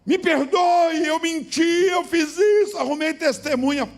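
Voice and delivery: high, loud, slow anguished confession; a guilty man crying out his lies to the pastor; shouted confession. Retold or imitated. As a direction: wail out the confession.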